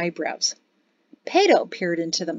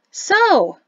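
high, louder opening word; said loudly; 11 semitones higher, 6 dB louder than usual. Acted. Mari speaks over crooning Oblong, loud interruption. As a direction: cut through the singing. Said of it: "Mari said loudly".

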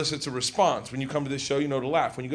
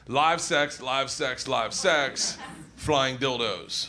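slow sign reading; 6 semitones lower, much slower than usual. Retold or imitated. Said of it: "a sign that says".

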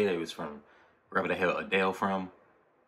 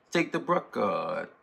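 mimicking the flow; 4 semitones higher, slower than usual. Fan echoing the rapper's line to himself, slow mimicked flow. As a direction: rap "Take the Brucker" slowly, copying the rapper's New York flow. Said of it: "What does that flow remind me of?".

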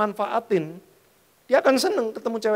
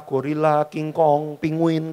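ordinary delivery

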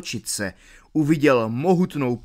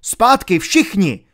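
slow, loud, high Zpátky all ringing out; shouted command; 7 semitones higher, 8 dB louder than usual. Acted. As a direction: roar Zpátky at the whole gang. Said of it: "vykřikl".

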